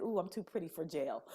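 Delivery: sassy joke with a laugh in it; tossing off a cheeky line, laughing; laughing quip. Retold or imitated. Joking to the therapist, laughing.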